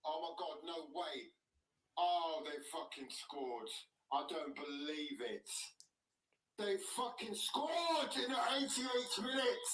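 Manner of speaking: hushed shock, then rising despair; stunned disbelief. Real, not acted. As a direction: whisper in disbelief at the goal. Conceding late equaliser.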